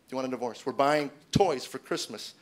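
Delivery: "You want a divorce?" dropped flat and falling, slowed, like a chore; offhand and flat. Retold or imitated. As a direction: toss it off like taking out the trash. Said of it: "as if you want to take out the trash".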